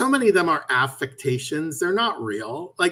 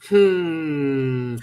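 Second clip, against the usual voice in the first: put-on kids' knowing hmm. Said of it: "It's not just".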